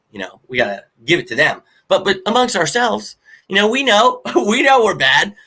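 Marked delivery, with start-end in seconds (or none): 1.9-5.3 laughing. Real, not acted. Laughing admission among fans.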